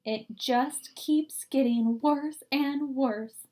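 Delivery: sobbing. Acted. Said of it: "she began to sob".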